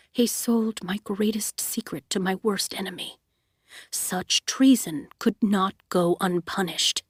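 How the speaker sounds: low soothing voice. Acted. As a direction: explain the cruelty gently. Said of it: "the low, soothing voice".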